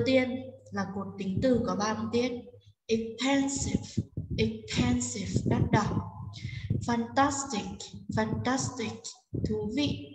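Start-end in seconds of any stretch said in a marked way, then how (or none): 2.9-5.4 "Expensive" with the middle syllable PEN made clear and prominent; stress on second syllable. Shown as a demonstration. Teacher models word stress for students to repeat, clear stressed "Expensive". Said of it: "Chúng ta sẽ đọc âm đó to rõ ràng". 6.9-9.0 "Fantastic" with TAS clearly brought out; stress on second syllable. Shown as a demonstration. Teacher models word stress for students to repeat, clear stressed "Fantastic". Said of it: "Chúng ta sẽ đọc âm đó to rõ ràng".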